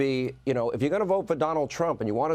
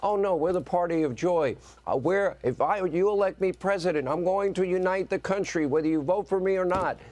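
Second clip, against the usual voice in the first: higher-pitched mocking campaign promise; mocking imitation in a raised pitch; mock party politician; 6 semitones higher than usual. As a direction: parody an opponent's unity pledge, pitched up. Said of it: "then they juxtapose it with".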